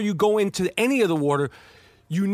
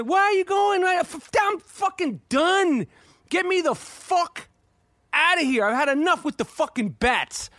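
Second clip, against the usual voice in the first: panicked; 8 semitones higher than usual. Retold or imitated. Retold panic leaving the cave.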